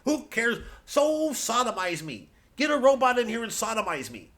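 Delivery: hoch, laut, übertrieben lässig; gleichgültiger Komiker. Pretend. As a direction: ein Schulterzucken in der Stimme, völlig egal. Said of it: "You're supposed to go".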